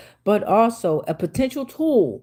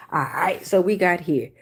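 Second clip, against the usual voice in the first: whisper; 3 semitones lower than usual. Real, not acted.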